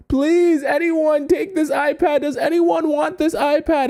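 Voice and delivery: very high, mounting mock plea; acted begging. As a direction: beg any passer-by, voice pitched right up. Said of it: "and I'm begging people".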